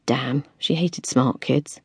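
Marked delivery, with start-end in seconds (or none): none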